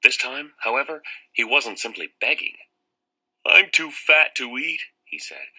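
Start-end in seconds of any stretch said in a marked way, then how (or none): 3.5-4.9 high, louder whiny plea; frightened pleading. Acted. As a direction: bargain in panic. Terrified boy begging vampire.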